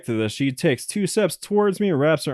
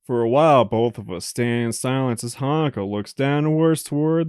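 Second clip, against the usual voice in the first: even visual-novel reading voice; story narration. Acted. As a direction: narrate the game text steadily. Reads game narration.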